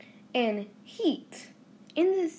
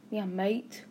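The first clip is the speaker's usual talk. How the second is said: lightly put-on Australian accent; mock Australian accent; 3 dB quieter than usual. Podcaster teasing Australians about their accent, mock Australian accent. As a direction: imitate an Australian in passing. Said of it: "they have an accent".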